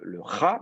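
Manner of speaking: "ra" as the accented last syllable; stressed final syllable. Shown as a demonstration. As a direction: put the tonic stress on "ra". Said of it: "la dernière syllabe est accentuée".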